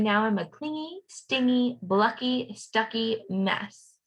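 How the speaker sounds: bouncy chant, slowing on the last words; sing-song refrain. A narrator's reading. Teacher reading a refrain to kids, sing-song. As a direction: read the rhyme with a beat, stretching the end. Rhythmic refrain read aloud.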